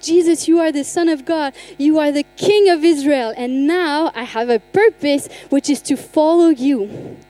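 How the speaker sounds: acting out a new believer's certainty; convinced declaration. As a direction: proclaim it with growing conviction. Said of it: "because then he was convinced".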